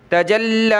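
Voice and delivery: تجلی with the لام pressed and held a beat; doubled lam. Shown as a demonstration. Teacher demonstrating shadda on لام, lam held hard. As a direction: stop and lean on the لام in تجلی. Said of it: "لام کو سخت کریں گے".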